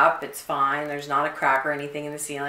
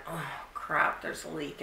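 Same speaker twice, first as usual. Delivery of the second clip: deflated; 3 semitones lower, 11 dB quieter than usual. Retold or imitated. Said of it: "And I went".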